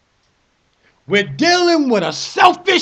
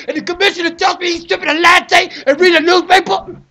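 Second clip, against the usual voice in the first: furious disbelieving rant; outraged shout; 5 semitones higher than usual. Real, not acted. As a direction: yell it in disbelief.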